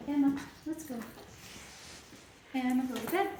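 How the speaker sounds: loud, firm calling; firm command. Real, not acted. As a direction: call her firmly by name.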